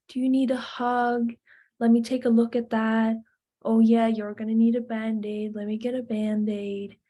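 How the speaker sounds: steady, matter-of-fact reassurance; calmly tend to a child's scrape; calm, present. Acted. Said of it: "you're being calm".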